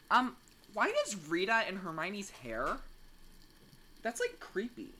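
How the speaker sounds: put-on valley girl uptalk. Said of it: "Why are you talking like a valley girl".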